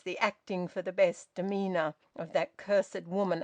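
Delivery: plain reading voice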